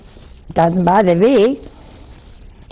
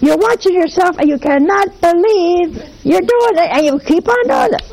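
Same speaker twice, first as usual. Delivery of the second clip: building disbelief; 7 semitones higher than usual. Real, not acted. Describing losing her temper.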